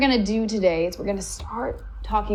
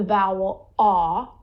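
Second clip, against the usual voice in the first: slow, long, dopey yawn of an ah; dopey yawny ah; much slower than usual. Shown as a demonstration. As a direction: sing ah like a lazy yawn. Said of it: "very dopey, very long, very yawny".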